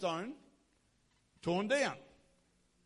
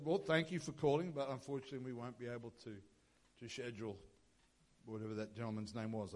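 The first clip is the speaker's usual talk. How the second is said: polite decline; 8 semitones lower, 7 dB quieter, faster than usual. Retold or imitated. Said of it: "politely declined the invitation".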